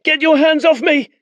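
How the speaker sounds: put-on high, loud defiant boy; struggling boy. Boy yells at his captor, defiant and loud. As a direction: fight him off with your voice.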